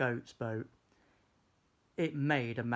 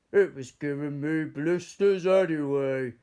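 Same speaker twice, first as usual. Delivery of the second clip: offhand; 3 semitones higher, 9 dB louder than usual. Acted. George, offhand, giving his shoe.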